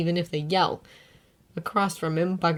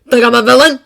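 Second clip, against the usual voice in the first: taunting; 6 semitones higher, 15 dB louder, faster than usual. A narrator's reading. Bakugo taunting.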